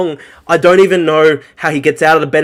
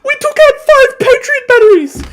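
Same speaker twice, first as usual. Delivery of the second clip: very high, louder mock wail; Kim dot com coping; 5 dB louder than usual. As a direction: squeal it as a hammed-up coping boast. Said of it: "was coping yesterday going like".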